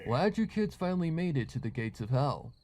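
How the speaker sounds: lightly hammed-up haunted-house host; mock spooky greeting to the kids; spooky joyous welcome. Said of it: "joyous Nightmare Night style welcome".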